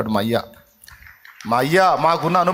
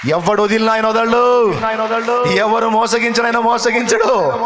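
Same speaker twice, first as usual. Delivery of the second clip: high, loud, ringing proclamation; preaching at full force; 8 semitones higher, 7 dB louder than usual. Acted. Preacher declaring to the congregation, full-force preaching. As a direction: preach it out to the whole hall.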